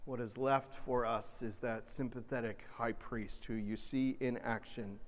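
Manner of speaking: usual speaking voice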